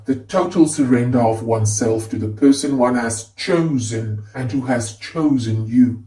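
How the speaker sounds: "chosen" given deliberate weight each time; stress on CHOSEN. A narrator's reading. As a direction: lean on the word "chosen". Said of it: "I emphasize the word chosen".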